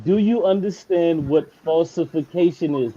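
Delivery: slowed, every word spelled out; slow and deliberate. Shown as a demonstration. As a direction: repeat it slowly and pointedly. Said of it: "This is the third time".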